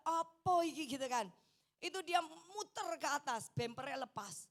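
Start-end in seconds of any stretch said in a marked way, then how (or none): 0.1-0.9 alarmed exclamation. Retold or imitated. Retells alarm in tumbling car.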